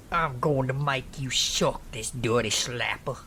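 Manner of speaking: lightly voiced aggressor; a hint of the attacker's voice; menacing stranger. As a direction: threaten in a slightly put-on voice. Attacker's threat, voiced in story.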